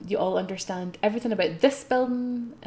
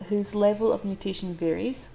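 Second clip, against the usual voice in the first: lore reading. Acted. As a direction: read the lore like a guidebook. Reads the game lore.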